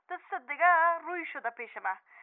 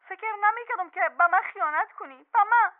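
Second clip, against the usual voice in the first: rising louder on به من; hurt accusation; 3 semitones higher, 5 dB louder than usual. Acted. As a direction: throw the betrayal back at him. Wife accuses husband of betrayal. (اتهام با خشم و دلشکستگی)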